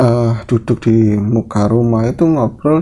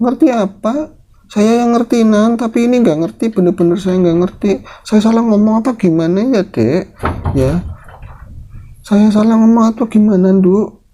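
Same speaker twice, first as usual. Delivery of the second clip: bewildered granny; 11 semitones higher than usual. Acted. Nenek bingung, takut salah bicara.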